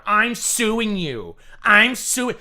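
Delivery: loud, high, stretched-out mimicry; mock outraged threat. Mimicking a man who sues over any insult, mock outrage. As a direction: exaggerate each word like an indignant litigant.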